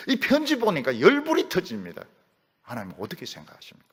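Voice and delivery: voicing Hezekiah, urgent and frank, rising at times; Hezekiah's candid prayer. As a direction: lay the letter before God and ask plainly. Hezekiah pleading with God.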